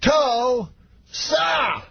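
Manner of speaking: very slow, high shouted "Tulsa", split in two; Bill Cosby. Retold or imitated. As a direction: hugely stretch both syllables of "Tulsa", pause between. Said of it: "every time slower".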